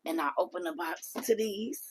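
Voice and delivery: hushed build-up before the reveal; whisper. Real, not acted.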